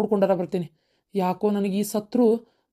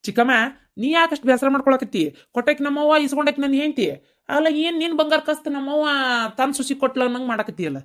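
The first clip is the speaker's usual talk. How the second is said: raised-pitch, exasperated retort; indignant; 5 semitones higher than usual. Acted. Nephew rebuking aunt who grudges his wife the gold, indignant. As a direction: push back with mild indignation.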